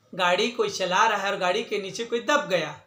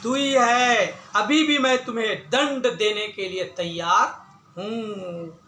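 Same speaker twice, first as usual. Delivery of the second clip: angry accusation. Acted. Hunter blames the snake and threatens punishment, lightly acted anger. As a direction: stretch the accusation, then threaten firmly. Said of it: "एकदम क्रोधित होकर के वो बोला".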